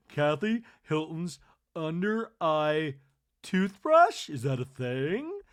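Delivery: loud, airy, pleased with herself; a light mock of a ditzy inventor; dizzy Kathy. Kathy brushing with her eye brush, lightly voiced. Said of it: "and now she's like".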